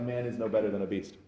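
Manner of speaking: put-on quoting Solomon in a sudden unplaced accent; odd unplaced accent. Preacher quoting Solomon to the congregation, in an accidental accent. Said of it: "don't know where that accent came from".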